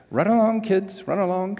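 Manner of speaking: high-pitched mock-British vicar brush-off; attempted British vicar. Vicar dismissing the kids after his long answer, attempted British accent. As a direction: send them off in a high, badly faked British lilt. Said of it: "If I could do a British accent".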